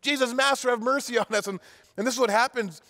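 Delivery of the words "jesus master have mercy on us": high, eager calls; yelling to Jesus. Acted. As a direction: wave him down with your voice. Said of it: "They're yelling".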